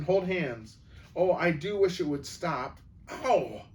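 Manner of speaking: wishing the pulling would stop; frightened pleading; anxious. Acted. Susan pulled by magic.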